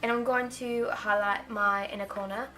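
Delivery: British accent drifting Australian; attempted British accent. Shown as a demonstration. Doing the makeup video in a wavering British-Australian accent. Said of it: "This is definitely an Australian accent".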